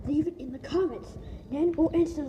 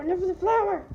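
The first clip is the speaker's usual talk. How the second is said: higher, firmer "enough of the flower"; louder insistence; 4 semitones higher than usual. Shown as a demonstration. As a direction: push "flower" up and out. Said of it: "Okay, enough of the flower".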